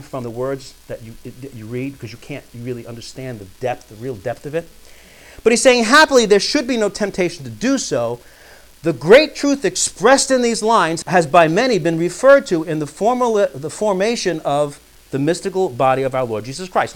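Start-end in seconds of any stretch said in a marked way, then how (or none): 5.8-16.9 raised, emphatic reading aloud; formal quote reading. Acted. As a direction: read the text out firmly to the room. Reads a quotation aloud.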